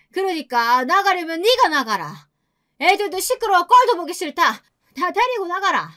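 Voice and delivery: high-pitched scolding mother-in-law, no extra volume; angry yelling. A narrator's reading. Mother-in-law ordering daughter-in-law and children out, high angry scolding. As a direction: rail at her in a high, acted old-woman voice. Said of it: "저한테 소리를 지르더라고요".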